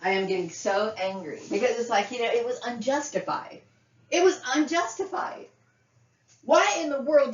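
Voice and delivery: anger building, pitch climbing high on unjustified; rising anger. Real, not acted. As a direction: let the anger boil up into a high pitched protest. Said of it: "now I'm really getting angry".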